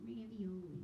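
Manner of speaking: "Ravioli" with a Long Island "rih" in the first syllable; "Ravioli" said the way she would at home. Shown as a demonstration. Comic shows the audience her home accent on "Ravioli". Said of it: "That's how I would say it".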